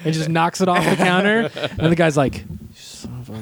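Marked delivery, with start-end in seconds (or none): 2.4-3.3 hushed curse. Retold or imitated. Guy curses at raptor.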